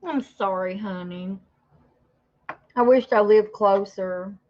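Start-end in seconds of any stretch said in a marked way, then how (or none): 0.1-1.4 gummy speech without dentures; toothless. Real, not acted. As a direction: say it with no teeth in. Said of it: "I've never been on here without my teeth in".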